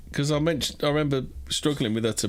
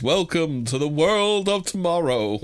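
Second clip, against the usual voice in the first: Futurama voice; 3 semitones higher, slower than usual. Retold or imitated. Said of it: "the Futurama voice".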